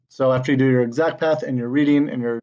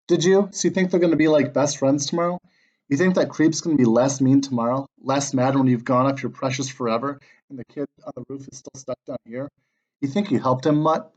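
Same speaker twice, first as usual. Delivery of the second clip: mocking taunt. Patsy scolding Brody for wasting his soul, mild scornful taunt. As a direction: needle him, a hint of scornful disbelief.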